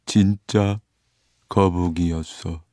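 sighing, drawn-out reminiscence; sigh, then recall slowly; wistful turtle character. Acted.

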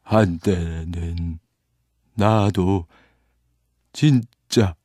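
slow, wistful storytelling turtle; wistful old turtle character. Acted. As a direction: drag out the turtle's memories.

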